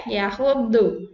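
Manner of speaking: "yahudu" with a pressed side d; heavy d demo. Shown as a demonstration. Teacher models the dhad in "yahudu".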